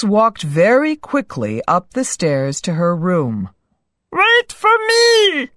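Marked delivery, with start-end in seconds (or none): 4.1-5.5 frog crying out. Acted. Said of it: "cried the frog".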